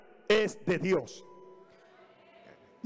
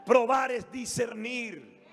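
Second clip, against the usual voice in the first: slow shout; 5 semitones higher, slower than usual. Acted. Preacher repeats phrase, now shouted.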